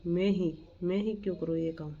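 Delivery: ही in मैं ही given light stress; the teacher demonstrates stress on ही. Shown as a demonstration. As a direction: lean on ही to show emphasis. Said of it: "बलाघात यानी जोर".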